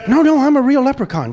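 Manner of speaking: loud, high protest; emphatic insistence. Acted. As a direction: burst in to correct a doubter. Leprechaun insists he is real.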